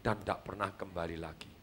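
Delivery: soft and low, "kembali lagi" fading into silence; a speaker demonstrating a sad punchline before a pause; hushed dramatic ending. Shown as a demonstration. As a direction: show the audience how to land the line quietly. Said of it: "kasih diem tiga puluh detik".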